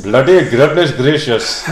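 put-on slow Australian drifting into another accent; botched Australian accent. Host sending up his own failure, slow mangled Australian accent. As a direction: let the Australian slide somewhere else entirely. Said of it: "didn't say what accent I thought".

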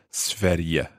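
Sverige with the G said as a Y, svair-ye; soft G as Y. Shown as a demonstration. Teacher checking the Y sound in Sverige. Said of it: "the G has a Y sounding in there".

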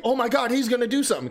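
high, loud, fast mock hype call; mock excited commentator. Mocking commentary before the commercial break, high loud hype. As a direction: fake breathless commentary hype.

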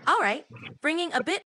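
loud, high staccato bursts. Shown as a demonstration. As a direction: punch each word out separately.

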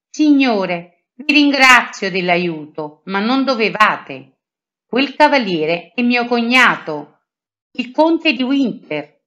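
a gently sweet lady, lightly voiced. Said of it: "con voce dolce". (con voce dolce, appena accennata)

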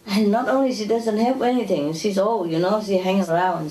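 ordinary talk, nothing marked

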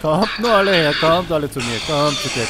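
loud taunting call. Real, not acted. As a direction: goad them to come closer. Taunting enemies to come.

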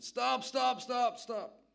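high, loud repeated yell; old granny yelling. Retold or imitated. Old granny interrupting the Bible demo with a loud yell. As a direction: cut him off with a shout. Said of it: "Next minute".

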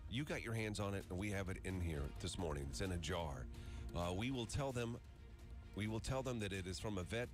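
ordinary talk

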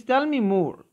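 put-on child excited to hear about the whale. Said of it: "Muzna gets excited".

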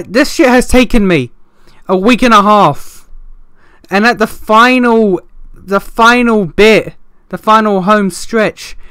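real frustrated rant. Real, not acted. Gamer ranting to viewers about a lost recording, real exasperated anger. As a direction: vent how fed up you are, pressing each phrase. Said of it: "I'm so pissed".

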